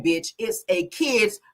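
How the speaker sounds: loud, slow, emphatic read; mock yell, each word stretched out; all-caps yelling. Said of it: "when they type in all caps, they yelling".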